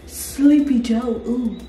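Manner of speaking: political impression. Mock Trump-style speech.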